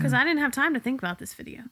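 fast sarcastic whisper. Real, not acted. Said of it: "that was sarcasm".

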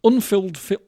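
tongue tripping on loose teeth; fumbling the word with loose dentures. Real, not acted. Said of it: "I did it again".

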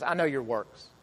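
calm "I know your works" with a falling end; tender, understanding "I know your works"; gentle knowing tone. Shown as a demonstration. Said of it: "he wouldn't use that tone".

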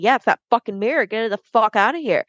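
quick, mildly exasperated rant; fed-up sister. Retold or imitated. Sister blaming the mirror for the nightmares, quick and fed up. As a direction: rattle it off, fed up.

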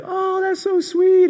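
imitated gushing, high and drawn out; gushing admirer. Churchgoers charmed by preacher and daughter, gushing. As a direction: coo it like a charmed onlooker.

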